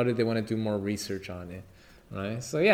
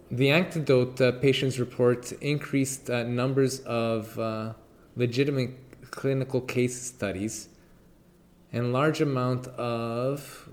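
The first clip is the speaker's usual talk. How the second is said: stumbling through the text while high; stoned. Real, not acted. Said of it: "I'm high right now".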